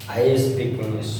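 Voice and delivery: each word of "I speak English" drawn out slowly for the class; teacher spelling out a sentence at dictation pace. Shown as a demonstration. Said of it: "मैं बहुत ही slowly बता रहा हूँ".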